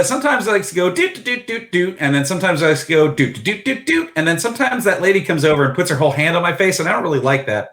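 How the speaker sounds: quick, high gadget chatter; chirpy touchpad voice. Acted. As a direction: rattle it off like a happy device. Touchpad voicing its preferences.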